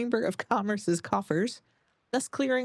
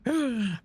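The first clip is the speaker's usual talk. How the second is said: mock gasp; 5 semitones higher than usual. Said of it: "Like, gasp".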